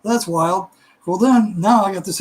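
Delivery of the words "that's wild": slow, drawn-out disbelief; amazed. Retold or imitated. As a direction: let the wonder stretch out. Hearing he was unresponsive.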